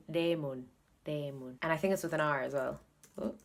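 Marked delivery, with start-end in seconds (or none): 0.1-1.6 "Lemon" as leh-mon, with a full o; "Lemon" with an unreduced second vowel, Korean-style; Korean-sounding word. Shown as a demonstration. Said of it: "turned into a Korean sounding word".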